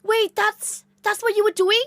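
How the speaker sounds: very high, loud astonishment; amazed cousin. Retold or imitated. Cousin suddenly grasping what the streamer was doing, high and astounded. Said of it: "She was like".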